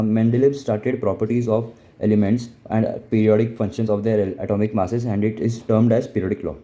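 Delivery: slow, deliberate dictation pace; slow textbook reading voice; reading notes aloud. Acted. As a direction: read it out word by word for notes. Teacher reading notes aloud slowly.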